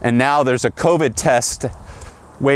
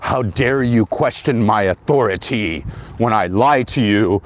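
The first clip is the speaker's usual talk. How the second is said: slow, mock-offended scolding; lightly voiced outraged doctor, slowed; mock indignant doctor; 3 semitones lower than usual. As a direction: ham up a doctor's wounded authority. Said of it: "they get really mad".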